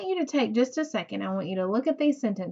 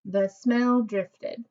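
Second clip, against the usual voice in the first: slow statement read; much slower than usual. Shown as a demonstration. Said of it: "now written correctly".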